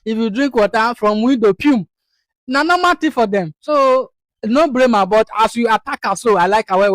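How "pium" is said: quick "pyoom" throwing noise; little whoosh made by mouth; tossing sound. Retold or imitated. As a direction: mimic something flung out the window. Imitates rubbish flung from window.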